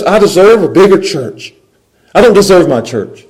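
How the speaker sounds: high, loud mock indignation; entitled complaint. Shown as a demonstration. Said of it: "The fairness says".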